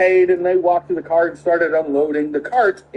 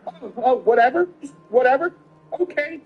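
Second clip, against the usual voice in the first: higher, incredulous mock echo; mocking disbelief; 6 semitones higher than usual. Son mocking the shopper's brush-off, higher and incredulous. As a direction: throw her word back at her in disbelief. The son mocking the rude lady.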